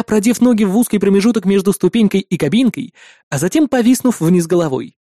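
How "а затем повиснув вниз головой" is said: usual speaking voice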